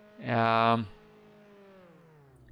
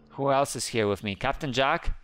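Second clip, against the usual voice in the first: ordinary talk, nothing marked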